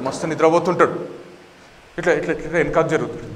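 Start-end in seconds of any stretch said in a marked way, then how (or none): none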